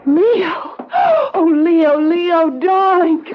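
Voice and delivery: tearful joy. Acted. Wife greets rescued husband.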